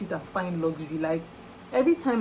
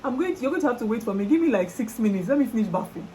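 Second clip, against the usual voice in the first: neighbor's apology; 4 semitones higher, 3 dB louder than usual. Retold or imitated. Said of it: "My neighbor will be like".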